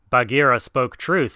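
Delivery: out of breath, panting words. Acted. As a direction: gasp it out after running. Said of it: "he panted".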